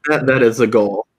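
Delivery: lightly put-on Russian accent; mock Russian accent. Joking about being Russian for a living, mock Russian accent. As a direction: keep up the pretend Russian. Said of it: "I'm a, a pro Russian".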